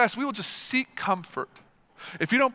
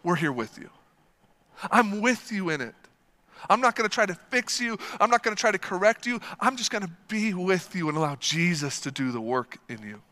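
gentle, steady reassurance; reassuring words. Shown as a demonstration. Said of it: "we just need to say".

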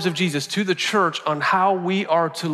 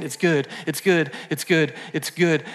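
smiling God. Acted. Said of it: "with a smile on his face and he's saying".

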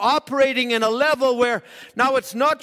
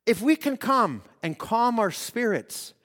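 calm slow. Shown as a demonstration. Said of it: "slow calming".

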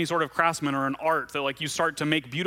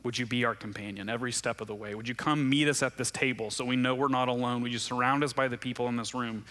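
prayer. Acted. Leads closing prayer.

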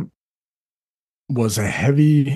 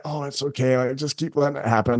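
dismissive brush-off; 5 dB quieter than usual. Shown as a demonstration. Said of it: "doesn't mean that we're gonna be like".

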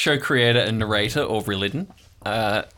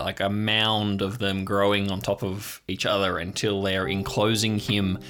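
game master narration. A narrator's reading. GM setting the dream scene for players.

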